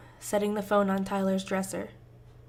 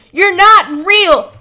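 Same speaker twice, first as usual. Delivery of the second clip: slow screaming; 11 semitones higher, 20 dB louder, much slower than usual. Acted. Screaming match, drawn out.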